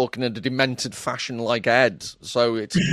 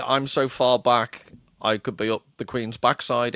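mock Queen's English; 2 semitones lower than usual. Host needling the co-host about his accent, mock Queen's English. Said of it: "English accent".

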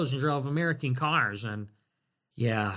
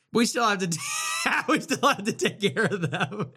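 laughing; 2 semitones higher than usual. Real, not acted. Laughing through line.

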